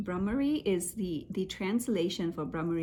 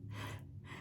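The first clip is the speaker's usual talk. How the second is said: faint, quiet breath out; barely audible release of air; soft airy exhale; 15 dB quieter than usual. Shown as a demonstration. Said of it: "but it is more like".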